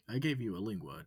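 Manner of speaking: bright curious alien asking questions; eager alien wolf. Acted. Wolf explains.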